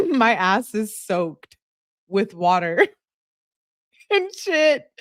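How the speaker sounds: can barely get the quote out for laughing; giggling through a friend's text; laughing while reading. Real, not acted.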